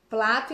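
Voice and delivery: plato said with an l for the r; child's lisp-like error. Shown as a demonstration. Therapist showing a child's r-to-l swap. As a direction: say plato instead of prato, l not r. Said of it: "plato em vez de prato".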